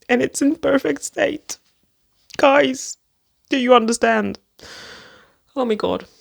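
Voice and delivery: high, bright gushing; thrilled. Real, not acted. To viewers, thrilled the book is perfect, gushing. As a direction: beg them to share the thrill.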